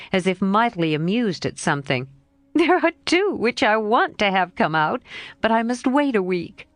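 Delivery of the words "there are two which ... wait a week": lightly voiced lively girl, a bit higher; a hint of a frank young girl, pitched up; Jo's voice. Jo answering her friend Laurie, lightly voiced girl.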